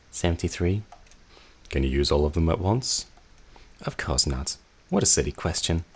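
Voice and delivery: haughty sister turning sharp; cold sister. Acted. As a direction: dismiss the little rat. Sister growing hostile.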